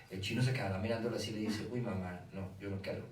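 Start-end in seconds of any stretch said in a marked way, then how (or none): 1.7-3.0 put-on child refusing. Niño responde a la madre.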